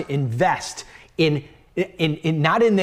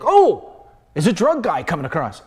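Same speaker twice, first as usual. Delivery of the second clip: mock discovery; 4 dB louder than usual. Mocking the pundits' old-camera idea.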